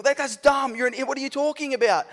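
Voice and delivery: high-pitched mock outrage at a phone; retold angry yelling. Preacher re-enacts ranting at his phone over a sermon title, mock angry yelling. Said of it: "I was yelling at my phone".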